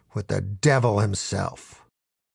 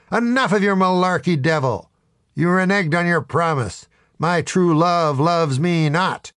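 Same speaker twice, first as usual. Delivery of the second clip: higher, hammed-up indignation; indignant accusation; 6 semitones higher than usual. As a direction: confront him with a theatrical grievance. Acted confrontation with the devil.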